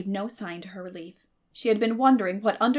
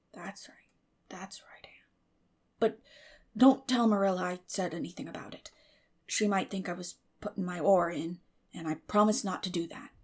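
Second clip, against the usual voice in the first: Matthew whispering. Acted. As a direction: hush it, pleased and secretive.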